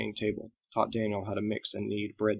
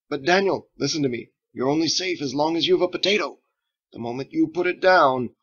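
mock ominous warning; 6 semitones higher, 7 dB louder than usual. Fergus teasing with mock warning.

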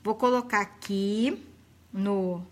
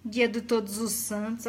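dry, lower mocking echo of "Dia do Todos os Santos", stress on "Dia"; scornful echo; 3 semitones lower, 3 dB quieter than usual. Wife mocking her husband's excuse to viewers, dry scoff. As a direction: repeat the husband's words with a scoff. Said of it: "Homem abusado, gente".

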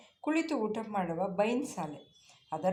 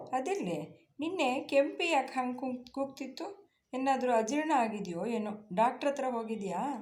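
caring, higher-pitched concern; affectionate asking; 5 semitones higher than usual. Acted. Woman kindly asking the farmhand about the cow, higher and caring. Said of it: "ಅಕ್ಕರೆಯಿಂದ ಕೇಳಿದಳು".

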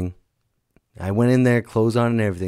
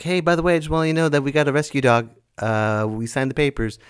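higher, quick casual phone news; lightly voiced caller, pitched up and chatty; caller's breezy announcement; 5 semitones higher, faster than usual. Partner casually calls about a rescue dog, breezy. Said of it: "And then she called me. She's like".

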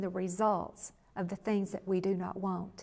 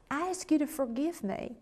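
soft, slightly raised pleading voice; sincere apology; 4 semitones higher, 4 dB quieter than usual. Retold or imitated. Husband asking his wife to forgive him, soft and sincere. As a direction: ask humbly for pardon.

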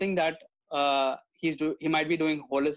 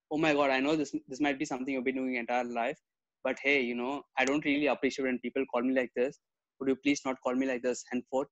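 softer, lower, patient and kind; gently; 5 semitones lower, 3 dB quieter than usual. Retold or imitated. Calmly asking a rude guy to stop, gentle. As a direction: ease it to him politely. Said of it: "gently tell him".

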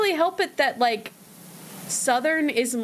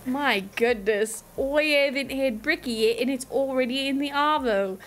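put-on Australian accent. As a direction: play an indignant Australian, amateurishly. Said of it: "have not practiced an Australian accent".

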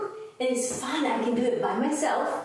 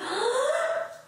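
blowing out hard. Shown as a demonstration. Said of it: "Can you help me again?".

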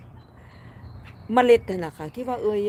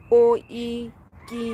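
halting, syllable by syllable; sounding out a name; 3 semitones higher, 4 dB louder than usual. Real, not acted. Streamer cannot read viewer's name, sounding it out. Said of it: "พี่ก็อ่านบ่ออก ไม่ออก".

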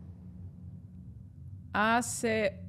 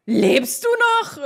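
calling out; 9 semitones higher, 7 dB louder, much slower than usual. Acted. Calling to fallen girl.

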